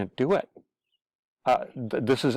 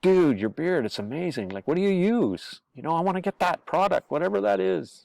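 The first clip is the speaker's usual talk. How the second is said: much higher, admiring dude voice; gushing bro; 7 semitones higher than usual. Retold or imitated. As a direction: fawn over a buddy's beard. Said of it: "or their beard, how beautiful it is".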